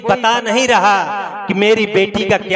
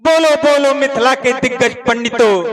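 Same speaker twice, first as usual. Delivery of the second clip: higher, fast, forceful challenge; angry challenge; 5 semitones higher, faster than usual. Acted. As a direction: call out the scholars with rising anger. King's angry challenge to scholars.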